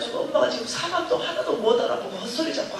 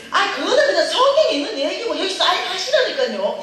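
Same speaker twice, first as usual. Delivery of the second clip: much higher and louder, laughing; exasperated high yell; 9 semitones higher, 7 dB louder than usual. Retold or imitated. Daughter to mother, high laughing yell. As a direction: blurt it out, fed up.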